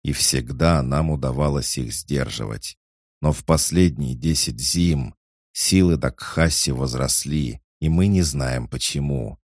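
a touch of hard steel; lightly voiced stern barbarian chief; stern, metallic. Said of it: "Голос орка посуровел, а в тоне зазвучал металл".

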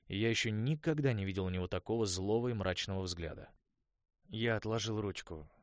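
plain reading voice

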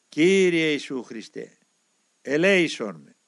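slow, drawn-out prayer; prayer said aloud. Acted. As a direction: recite the prayer slowly, with force. Saying the prayer aloud at work. (αργή, δυνατή προσευχή)

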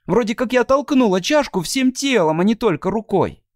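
put-on high, sulky young girl; a resentful girl warning him; Abby's girlish voice. Abby warning Mr Wright nothing good will come.

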